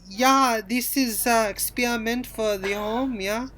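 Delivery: lightly put-on Swedish accent; amateur mock-Swedish accent; attempted Swedish accent. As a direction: retell it in halting, makeshift Swedish-accented English. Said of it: "speaking English in a Swedish".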